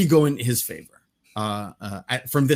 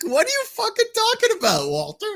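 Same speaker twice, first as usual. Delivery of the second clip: laughing. Retold or imitated. Quoting Walter scene, laughing.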